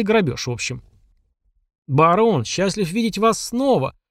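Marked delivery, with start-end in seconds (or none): 1.9-4.0 slow, overly cheerful welcome; mock joyful greeting. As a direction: greet him with a showy smile. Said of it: "С радостной улыбкой приветствовал".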